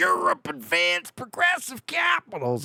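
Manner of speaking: silly put-on voice, very high and drawn out. Recalling how they first named the game settings, in a funny voice. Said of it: "why you say pro- progressive capitals in funny voice?".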